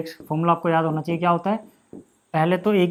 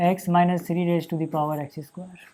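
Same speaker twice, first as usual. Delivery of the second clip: slow, spelled-out dictation pace; slow board dictation; much slower than usual. Shown as a demonstration. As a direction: dictate slowly while writing. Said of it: "teacher dictating slowly".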